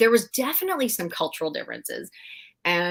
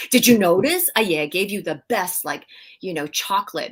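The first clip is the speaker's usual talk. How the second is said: grandma's voice; 5 dB louder than usual. Retold or imitated. Granddaughter mimicking her grandma's hint, mock emphatic. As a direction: replay grandma's pointed remark with a teasing lift. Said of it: "my grandma would always say".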